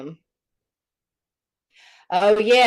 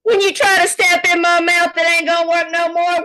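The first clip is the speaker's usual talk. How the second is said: heavily compressed; 8 semitones higher, 8 dB louder than usual. Real, not acted. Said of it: "I did put a compressor on your mic".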